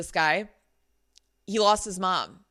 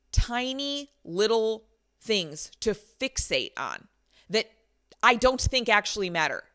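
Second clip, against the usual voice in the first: quite direct. Retold or imitated. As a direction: spell out the complaint with measured pauses. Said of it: "I was quite direct".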